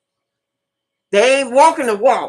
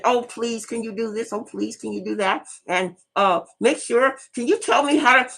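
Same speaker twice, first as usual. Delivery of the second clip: softer, whiny mock pleading, fading away; mock begging; 7 dB quieter than usual. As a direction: beg like a helpless supplicant, mocking it. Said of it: "no business of begging and pleading".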